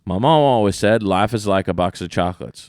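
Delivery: light Southern imitation with "is"; lightly accented movie quote, "is" run into "like"; Forrest Gump quote, is. Shown as a demonstration. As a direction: say "is" quickly in a mild Southern accent. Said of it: "I said is in one of them".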